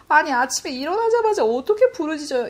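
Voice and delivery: high-pitched whiny protest; whining. Retold or imitated. Grumbling to God about crying out first thing in the morning, whining. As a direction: whine it like a mock complaint. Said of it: "이렇게 찡찡거렸던".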